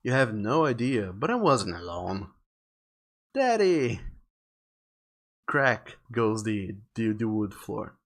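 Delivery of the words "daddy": put-on high little-boy call; raised child's cry for a parent; young Mikey. Little boy alone in the woods calling his father, high-pitched. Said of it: "says young, young Mikey".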